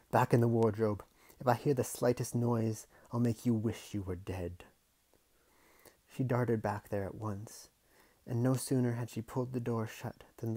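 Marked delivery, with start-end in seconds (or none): 0.1-4.6 threatening. Acted. Threatening uncle.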